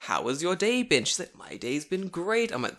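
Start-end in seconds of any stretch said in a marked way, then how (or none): 0.0-1.0 higher, sing-song politeness; mock English-practice question; overdone small talk. Teacher making practice talk with student, overdone politeness. 1.4-2.5 slow, higher, drawn-out practice English; overdone cheery answer. Retold or imitated. Student answering in English practice, slow overdone cheer.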